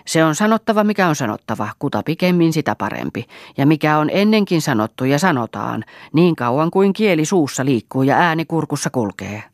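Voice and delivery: opens high and loud, then steady scolding; quarrelsome. Acted. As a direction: start the fight with a sharp outburst. Mother-in-law starts quarrel. (riitaisa kiivas puhe)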